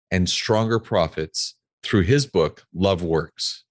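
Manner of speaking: announcer-style bio read in measured phrases; scripted guest introduction. Acted. Host introduces a veteran CEO guest to listeners, scripted intro read. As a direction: present the guest's credentials with deliberate emphasis.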